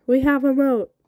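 high, loud triumphant shout. A narrator's reading. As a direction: yell it out in triumph.

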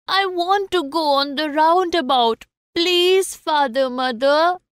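put-on high-pitched little boy begging; pleading child. A narrator's reading. Child begs father and mother for a ride, high plea.

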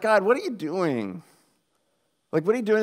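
baffled, challenging question to God; acted-out exasperated disbelief; incredulous questioning. Questions God, suspecting he is messing.

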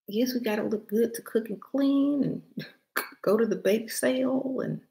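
put-on playful fifties housewife in a Southern accent. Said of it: "in that Southern accent".

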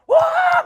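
very loud, high whooping "wow"; long, high mock cheer. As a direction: imitate a jeering crowd's cheer at full volume. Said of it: "계속 놀리는 거야".

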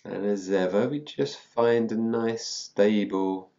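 slow, unhurried meditation lead-in; guided meditation. Real, not acted. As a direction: ease listeners slowly into the practice. Begins leading the meditation.

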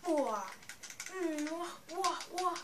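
excited. Real, not acted. Excited reaction to gameplay.

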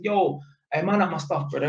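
lighter, friendly request; friendlier version. Shown as a demonstration. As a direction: say it casually, brother to brother. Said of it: "you could have just said".

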